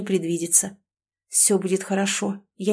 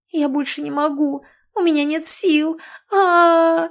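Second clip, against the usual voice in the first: screaming; 8 semitones higher than usual. A narrator's reading. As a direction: cry out with no strength left, ending in a scream. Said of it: "вопила Алёнка".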